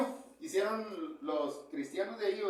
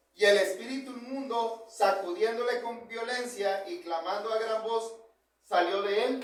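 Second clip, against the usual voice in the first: lightly dramatized Bible reading; scripture reading. Acted. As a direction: read the passage with weight. Reads Mark 1:23-26 aloud. (lectura bíblica solemne)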